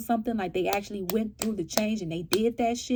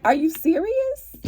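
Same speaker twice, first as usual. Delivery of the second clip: incredulous; 7 semitones higher, 5 dB louder than usual. Real, not acted. Exasperated at underpaying companies.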